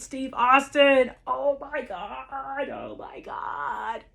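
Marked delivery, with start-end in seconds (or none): 1.3-4.0 slow, softer, voice near tears; choked up. Real, not acted. Fan remembering Stone Cold's glass shatter, slow and teary. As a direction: overcome and barely holding it together. Overwhelmed fan recalling Austin's entrance.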